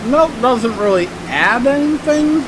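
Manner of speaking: talking with food in mouth; chewing. Real, not acted. Seen 1: Bitten dunked cookie in hand, mouth working food early on.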